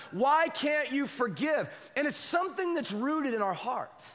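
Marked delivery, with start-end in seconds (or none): 0.1-1.7 scolding shout. Acted. A parent shouting slowly at the child who won't forgive.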